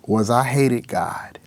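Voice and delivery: slow broken whisper on hated; confessing through tears; tearful whisper. Real, not acted. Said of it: "but I ended up crying".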